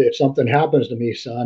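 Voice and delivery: plain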